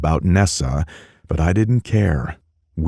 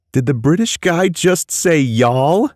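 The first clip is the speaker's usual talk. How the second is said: laughing; 12 semitones higher, 4 dB louder than usual. Acted. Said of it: "laughing harder".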